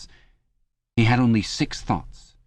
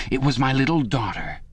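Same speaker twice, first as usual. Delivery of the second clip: doleful pride; 5 semitones higher than usual. Acted. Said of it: "with a sort of doleful pride".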